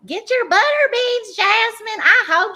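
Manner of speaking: high-pitched, excited outburst; excited cheer. Real, not acted. Co-host cheering for Jasmine to go on the block, excited cheer.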